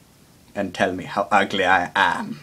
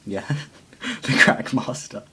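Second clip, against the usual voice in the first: the Crack Master said through a chuckle; laughing at the nickname. Shown as a demonstration. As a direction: giggle as you repeat the Crack Master.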